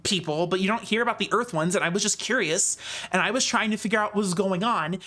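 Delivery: quick, rambling, defensive monk; nervous young monk voice. Acted. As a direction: babble your excuses nervously.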